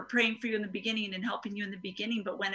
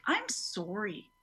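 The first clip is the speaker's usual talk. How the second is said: slow sincere comfort. Shown as a demonstration. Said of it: "just telling people".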